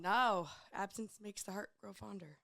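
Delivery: hoarse voice after a festival. Real, not acted. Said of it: "I'm trying to get my party girl voice".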